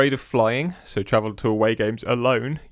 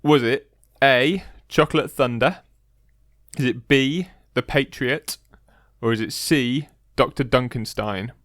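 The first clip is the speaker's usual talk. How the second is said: quiz host read; 2 semitones higher, slower than usual. Acted. Reads quiz options.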